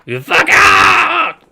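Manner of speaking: high shrieking little creature; slow, furious squeaky shout; pixie. Acted. Creature yells at party.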